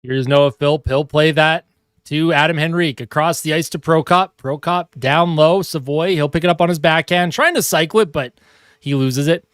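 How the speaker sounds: hockey announcer calling the action; lively sportscaster call; live play-by-play. Acted. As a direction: call the game like a TV broadcaster. Mock hockey broadcast while playing.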